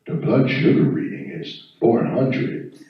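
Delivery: slow, flat robotic meter readout; a ding, then slow clinical robot announcement; clinical machine voice. Pretend. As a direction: read it out like a cold medical device. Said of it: "I hear".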